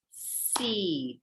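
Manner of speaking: "Seed" said as one clapped beat. Shown as a demonstration. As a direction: clap "Seed" out as one syllable. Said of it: "maybe you clap the word out like me".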